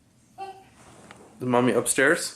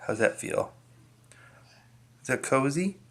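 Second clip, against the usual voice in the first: whispering; 4 semitones higher, 6 dB quieter than usual. Real, not acted. Settling toddler on carpet.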